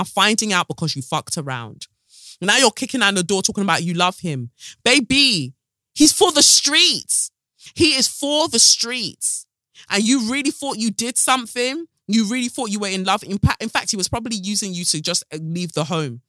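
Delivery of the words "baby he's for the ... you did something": slow and high, dragging each word; sassy drawn-out verdict. Real, not acted. To the refugee about the man, slow sassy verdict. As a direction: lay it down like final judgement, sassy.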